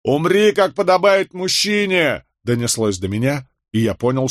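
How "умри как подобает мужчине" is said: high, jeering shout. A narrator's reading. The twins shout at their father on the scaffold. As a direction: yell it at your father. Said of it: "кричат близнецы".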